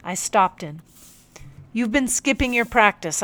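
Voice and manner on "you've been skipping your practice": a touch firm, slightly raised. Acted. Narrator to the captain, mildly firm. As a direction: set the rule down firmly. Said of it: "I said firmly".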